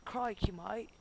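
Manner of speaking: badly faked Australian accent; light, clumsy Australian accent. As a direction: attempt a cheesy Australian accent. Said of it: "my accents are terrible".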